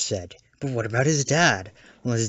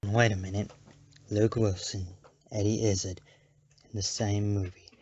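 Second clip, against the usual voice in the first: quieter, halting, piecing it together; dawning realization; 2 semitones lower, 5 dB quieter than usual. Acted. Critic notices two actors share a movie, hushed realization. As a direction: drop your voice and pause between each thought. Slowly realizes a coincidence in casting.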